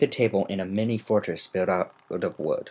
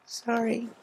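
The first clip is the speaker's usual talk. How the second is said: soft sorry; 12 semitones higher, 6 dB quieter than usual. Acted. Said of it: "said softly".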